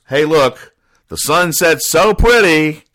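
put-on high, drawn-out "so pretty" of a delighted kid; mock childlike wonder. Child Dolly admiring sunset acted out.

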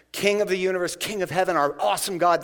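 praying with reverent force; fervent prayer. Shown as a demonstration. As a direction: call out to God in praise. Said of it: "That's how you pray".

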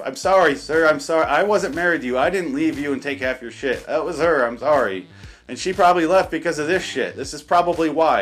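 loud, exasperated fake apology; loud mock apology. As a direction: raise the voice in mock sorrow. Mock apology to drunk man.

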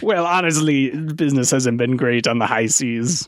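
lightly voiced pirate; mock pirate admitting hard times. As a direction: play the pirate, wobbly accent. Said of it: "professional pirate impersonator".

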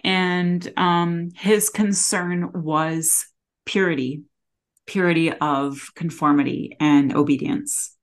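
teary, voice close to breaking; after crying. Real, not acted. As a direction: speak through held-back tears. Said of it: "sorry, getting teary".

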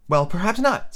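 high, mild placating voice; soothing Alice. A narrator's reading. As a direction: placate the mouse in a girlish voice. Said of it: "said Alice in a soothing tone".

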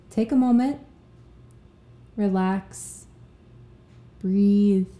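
unhurried, with long pauses between phrases; spaced-out relaxation cues, each left to settle; guided relaxation. Real, not acted. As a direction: lead listeners gently into a breathing pause. Leads listeners into relaxation break.

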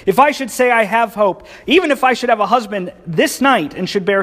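high, biting sarcastic reading; mock them with every line; pure sarcasm. Naomi scoffing at her daughters-in-law, bitterly sarcastic. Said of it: "Just pure sarcasm here".

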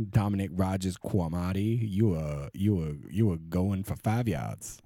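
lightly voiced referee making a call; mock ref call. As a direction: announce the penalty like a ref, a hint of a Southern lilt. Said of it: "Southern gay ref having to call penalties".

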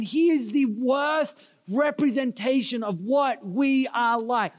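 slow, emphatic mock outrage; indignant outburst. Vendor denouncing the driver who misrepresents locals, indignant outburst. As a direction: hammer each word in retold disgust. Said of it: "he blew up".

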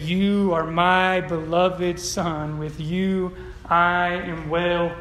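very slow, solemn divine declaration; voice of God. Pretend. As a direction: draw out each word like heaven speaking. Reading God's words from the verse.

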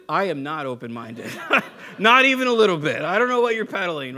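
laughing then loud denial; laugh, then refuse it outright; laughing refusal. Retold or imitated. Pastor refusing the caller's offer, laughing then loud.

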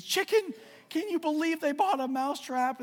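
very high, loud little mouse voice; the mouse begs the chicken for help, squeaking high; squeaky mouse. Acted. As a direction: squeal it like a tiny scared mouse.

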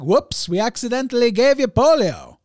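high, loud, sing-song mock apology; mock oopsie. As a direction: play it as a cheery careless official. Mocking careless officials.

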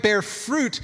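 "fruit" drawn out and leaned on; stress on fruit. Real, not acted. Preacher flags a key word for later, stress on "fruit". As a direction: put heavy weight on the word "fruit". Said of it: "I'm just emphasizing the word fruit".

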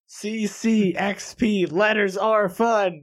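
slow, high and deliberate; slow flustered spelling. Real, not acted. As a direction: sound out each letter slowly.

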